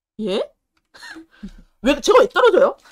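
blustering, loud, high-pitched, angry, indignant outburst. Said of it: "막 버럭버럭 화냈죠".

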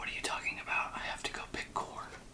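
soft whispering. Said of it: "they'd be like".

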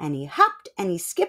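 plain

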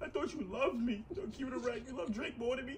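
in tears. Talking to the other person, who keeps asking why, crying. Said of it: "Why are you crying?".

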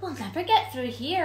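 burst-out, exclaimed delivery. A narrator reads a character's line as the iceberg gets stuck, exclaiming. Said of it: "exclaimed Gaspar".

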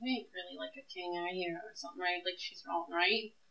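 voice brought down, hushed and soft. Taking two young women down the stairwell in a game, speaking in a lowered voice. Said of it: "lower my voice".

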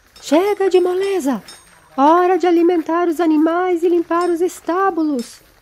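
high, loud, barked shouting. A guard shouts across the courtyard at a slave, shouting. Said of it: "gritou o homem".

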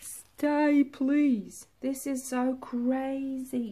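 thrilled, excited pleading, crazily drawn out. Looking at see-through layers in a resin painting: excited. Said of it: "I'm getting excited".

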